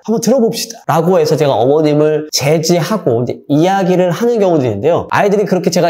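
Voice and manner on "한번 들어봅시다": 1 calm counselor. Retold or imitated. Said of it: "저는 그럼 어떻게 하는지 아십니까".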